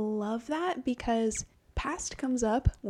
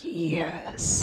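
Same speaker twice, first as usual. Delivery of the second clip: turned-on relish; 4 semitones lower than usual. Pretend. Acts turned-on lover answering threat.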